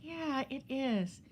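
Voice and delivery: a hint of an unbothered friend, very slow; lightly voiced serene friend shrugging off a house fire; imitating calm friend. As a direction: drawl it out, totally unfazed. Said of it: "she just talks like this".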